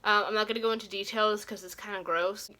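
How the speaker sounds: talking around a swollen gum; words slurred by a sore swollen cheek; swollen cheek speech. Real, not acted. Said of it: "My cheek is swollen because I'm having gum tissue problems".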